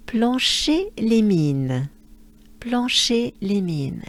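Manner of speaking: Plancher-les-Mines slow, nasal an; French Plancher-les-Mines. Shown as a demonstration. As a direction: say the town slowly in French. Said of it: "Let's break it down".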